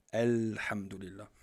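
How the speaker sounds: "Alhamdulillah" with the L of "Al" held before the h; lam held clearly. Shown as a demonstration. Teacher contrasting forms for students, the first L held. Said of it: "Il faut montrer cette soukoun".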